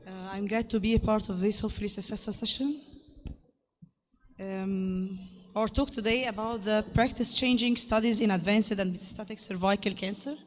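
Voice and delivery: rough, hoarse delivery; talking despite a sore, harsh throat. Real, not acted. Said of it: "So sorry for the harsh voice".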